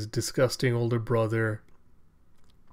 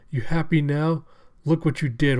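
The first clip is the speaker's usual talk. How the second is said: higher, loud jeering; gloating taunt; 4 semitones higher, 5 dB louder than usual. Acted. Cyborg blames old man for the carnage, gloating taunt. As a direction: rub it in loudly.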